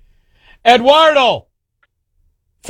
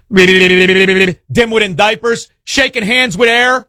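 slow mocking drawl; much slower than usual. Mocking Biden slowly.

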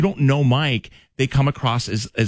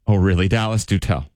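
sarcastic; 3 semitones lower than usual. Shown as a demonstration. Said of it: "Like this".

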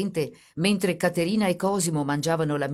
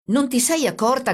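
raised, high, loud reproach; indignant raised voice; shouting; 8 semitones higher, 5 dB louder than usual. A narrator's reading. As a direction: cry it out as an accusation. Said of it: "gridò il carabiniere".

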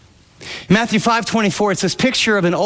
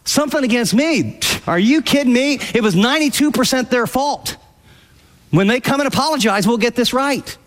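mock outrage, a touch higher; indignant inner voice; 6 semitones higher than usual. Believer protesting he is only eight percent to blame, mock indignant. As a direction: play the wronged party, half-joking. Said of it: "and in your mind going".

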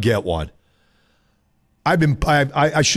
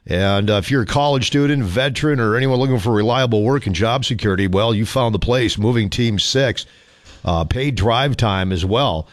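upbeat radio sponsor read; 3 semitones lower than usual. Acted. Radio host reading a live ad for listeners, upbeat ad read.

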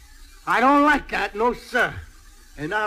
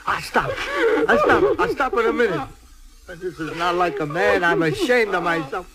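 crying man; 3 semitones higher than usual. Acted. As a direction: fight back tears and fail. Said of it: "I always cry after a fight".

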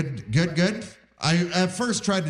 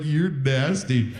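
mock flirty; much slower than usual.

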